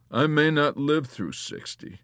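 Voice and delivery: pessimistic wheedling, a little high; flat pessimistic wheedle. A narrator's reading. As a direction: wheedle him with gloomy doubt. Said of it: "wheedled in a flat, pessimistic voice".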